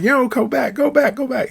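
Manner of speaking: retold panic, yelling at the cab driver to turn around; panicked scream. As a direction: shriek it like he just got a shock. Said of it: "He started screaming".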